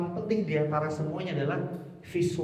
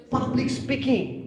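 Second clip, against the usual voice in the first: Public speaking said slowly, higher, each word weighted; emphatic; 8 semitones higher, much slower than usual. Shown as a demonstration. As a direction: lean hard on Public speaking. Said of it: "Aksentuasi itu adalah penekanan".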